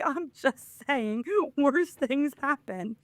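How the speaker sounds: high, slow put-on voice; mock defensive reply. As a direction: draw it out high, imitating someone defending himself. Retold defensive reply in squeaky voice.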